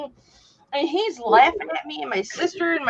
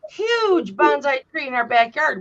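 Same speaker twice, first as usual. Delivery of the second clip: mock proud shout; 2 semitones higher than usual. Aunt telling nephew about her tree, raised boast. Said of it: "I said".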